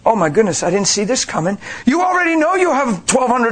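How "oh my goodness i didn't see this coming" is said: calm, unbothered tone. Retold or imitated. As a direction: say it without panic. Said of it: "and go".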